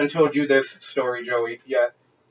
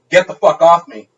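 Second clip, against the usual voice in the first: mock rebuff; 8 dB louder than usual. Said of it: "and I'm like".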